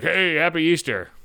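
slow, drawn-out mock greeting; imitated holiday greeting. Mom's boyfriend greeting him at Easter, drawn-out hello.

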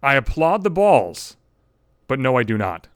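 mock formal quote of her text; quoting her text. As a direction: read her text back, dry and measured.

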